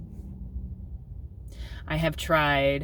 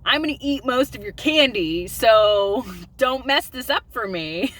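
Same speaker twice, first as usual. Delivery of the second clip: laughing aside; 6 semitones higher, 6 dB louder than usual. Retold or imitated. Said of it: "I'm like".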